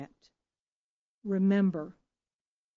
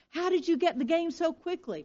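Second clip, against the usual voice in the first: voicing the old father; 9 semitones higher than usual. Father Isaac voiced in story.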